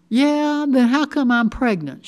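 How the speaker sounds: loud, high-pitched angry retort; yelling. A narrator's reading. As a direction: throw it back as a yell. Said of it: "she started yelling".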